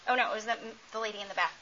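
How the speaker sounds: ordinary delivery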